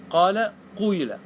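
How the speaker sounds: قال, then قويل with a vowel between "oo" and "ee"; ishmam variant. Shown as a demonstration. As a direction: say قال قويل as "qaala, quyla". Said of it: "نص الكسرة ونص الضمة".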